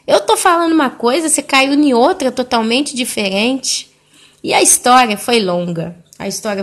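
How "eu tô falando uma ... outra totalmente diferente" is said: higher-pitched retold objection; exasperated protest. Daughter baffled by her mother's change of subject, exasperated protest. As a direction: object in mild acted exasperation.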